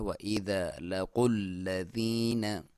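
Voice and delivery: slow, drawn-out tajweed chant; slow Quran recitation. Shown as a demonstration. Teacher reciting the verse for students, slow and drawn out. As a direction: recite it slowly, stretching each vowel. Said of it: "क़ाफ को मोटा".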